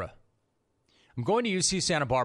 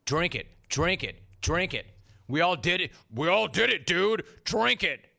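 goading chant that builds in pitch; 3 semitones higher than usual. Retold or imitated. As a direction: egg him on, building from even to insistent. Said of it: "him just working me".

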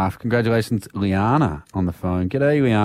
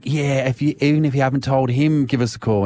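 excited self-quote, pitched higher; higher-pitched, mildly excited retelling; 6 semitones higher than usual. Retold or imitated. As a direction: replay your own eager outburst. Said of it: "I got excited and I was like".

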